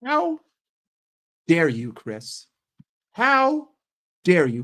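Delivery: hammed-up indignant shriek on each How; play-offended squeal at a chatter; mock outrage. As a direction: squeal the How up high, then drop back.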